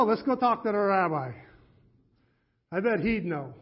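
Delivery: a Yiddish lilt, a shocked confession; Yiddish accent. Acted. Butcher tells the villager his son converted, in a Yiddish accent. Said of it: "they begged me not to do the accent".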